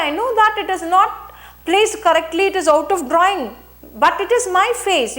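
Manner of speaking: emotion with dignity. Shown as a demonstration. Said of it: "I was conscious of break in my voice".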